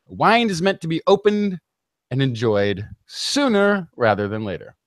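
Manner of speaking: usual speaking voice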